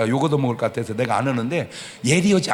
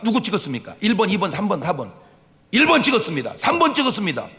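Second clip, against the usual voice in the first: exit poll exchange; 4 semitones higher, 4 dB louder, faster than usual. Retold or imitated. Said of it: "출구조사도 안 맞는 게 충청도예요".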